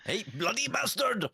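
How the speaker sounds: put-on high, slow Indian accent; hammed-up Indian accent, pitched high. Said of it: "Mexican or".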